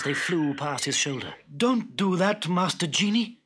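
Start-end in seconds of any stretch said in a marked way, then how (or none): 1.6-3.4 mild, higher-pitched plea; a touch of timid begging; pleading. Acted. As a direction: plead lightly with a frightening master. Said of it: "pleaded Abdullah".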